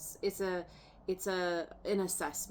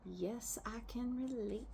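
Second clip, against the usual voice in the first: a private whisper, slowed on the second part; whispered aside; 4 semitones higher, 7 dB quieter than usual. Real, not acted. Tarot reader whispering a confession to her viewers. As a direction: confide it under your breath.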